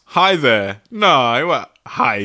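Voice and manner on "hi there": creepy hi there. Shown as a demonstration. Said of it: "What a nonce".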